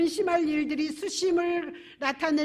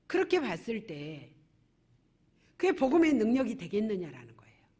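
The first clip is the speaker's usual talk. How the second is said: ordinary talk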